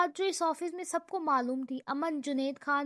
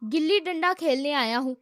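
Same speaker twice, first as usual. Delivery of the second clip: louder, through-the-teeth sarcastic retort; angry sarcasm; 6 dB louder than usual. Acted. Brother answers his brother's question with angry sarcasm. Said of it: "دانت بینچتے ہوئے غصے میں بولا".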